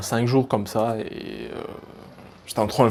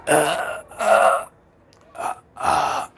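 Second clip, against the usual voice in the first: throat sound demo; 3 semitones higher, much slower than usual. Shown as a demonstration. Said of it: "donc, faites ça".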